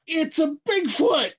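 put-on high-pitched excited kid voice; amazed kid. Kid spots a Bigfoot behind the curtains, amazed. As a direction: blurt it out high in wide-eyed wonder.

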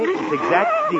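words dragged out by a yawn. Acted. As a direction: yawn through the phrase. Dad yawns again mid-sentence.

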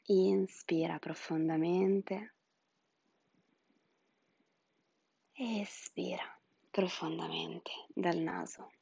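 breathy whispered meditation guidance. Acted. (sussurro rilassante da spa)

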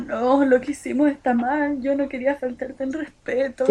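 a hammed-up crying boy begging forgiveness; mock tearful. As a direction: act out his sobbing apology, half-hammed. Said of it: "entre lágrimas".

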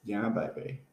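lightly voiced British swinger catchphrase; hint of a spy-spoof catchphrase; Austin Powers. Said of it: "Austin Powers?".

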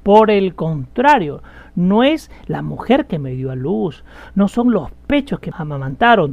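emphatic, forceful rebuttal; confrontational. Retold or imitated. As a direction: push back firmly, leaning on the contradiction. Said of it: "muy directa y confrontacional".

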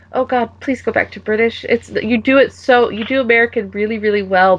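high-pitched fan plea; lightly hammed-up begging; mock pleading. Acted plea to switch back.

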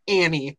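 "Annie" with no T, ending in ee; wrong name Annie. Shown as a demonstration. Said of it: "Don't say Annie".

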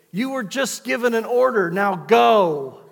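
put-on dad ordering the kids to bed; stern dad order. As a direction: lay down the law to the kids.

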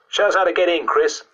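high, full-voiced schoolboy; normal speaking voice. A narrator's reading. Boy breaking the whispering hush, full normal voice. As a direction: speak up loudly, no hushing. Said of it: "Jeff said in his normal voice".

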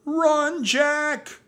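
very high, loud drawn-out warning; shouting. A narrator's reading. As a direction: scream for him to flee. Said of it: "shouted Annie".

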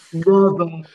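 high, far creepy voice; spooky drawn-out voice. Pretend. Mock creepy voice game.

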